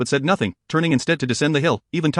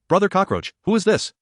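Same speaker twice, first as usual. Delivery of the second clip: playful annoyance; 6 semitones higher than usual. Acted. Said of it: "exclaiming in playful annoyance".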